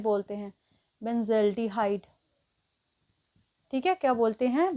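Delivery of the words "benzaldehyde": benzaldehyde drawn out syllable by syllable, softer; slow, spelled-out name. Shown as a demonstration. Teacher drilling class on the name, very slow. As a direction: say benzaldehyde very slowly so students catch it.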